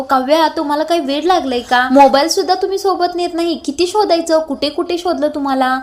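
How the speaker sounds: mildly hyper, exasperated scolding; hurried, worked-up annoyance. Acted. Parth scolding Kavya after searching for her, mildly agitated. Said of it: "खूप घाईने बोलत असतो".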